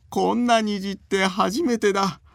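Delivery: put-on high, slow gleeful old man; delighted old man. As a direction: marvel like a tickled grandpa. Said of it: "大喜びのおじいさんの声".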